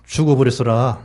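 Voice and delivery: Jeolla dialect demo; lightly demonstrated Jeolla accent. Shown as a demonstration. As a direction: say it with a Jeolla ending. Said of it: "전라도".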